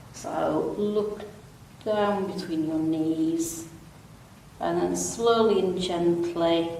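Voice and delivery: calm, unhurried stretch instructor; easy, even yoga-class delivery with long pauses; guided relaxation. Real, not acted. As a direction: guide them gently through it, pausing between phrases. Leads gentle seated stretches.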